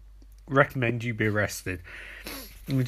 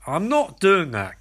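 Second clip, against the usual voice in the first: slow, higher, imitated refusal; aghast refusal; 4 semitones higher than usual. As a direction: draw it out, mock-appalled. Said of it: "Barry looks at Captain Cold aghast".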